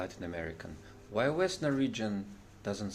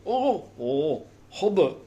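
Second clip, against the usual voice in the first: high, louder throaty Danish sounds; mock Danish; 5 semitones higher, 7 dB louder, much slower than usual. Comedian imitating Danish speech, hammed-up Danish accent. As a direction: swallow the word like a comic Dane. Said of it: "They say".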